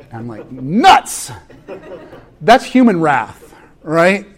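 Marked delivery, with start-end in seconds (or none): 0.5-1.3 laughing exclamation. Retold or imitated. Dad realizing he was wrong.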